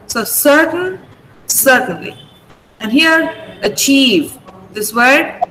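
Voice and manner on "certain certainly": "certain, certainly" with the stress on the first syllable, CER; stress on SIR. Shown as a demonstration. Teacher models stress for students, CER stressed in "certain, certainly". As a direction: lean on CER, let the endings of "certain, certainly" go light. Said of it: "You stress sir".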